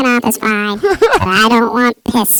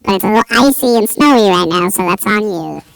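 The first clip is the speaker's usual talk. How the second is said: lightly voiced bossy driver laying down car rules; hint of a stern driver, half-joking; mock Mike Kim voice. Mocking the driver, laying down the rules of his car. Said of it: "I'm Mike Squints Kim".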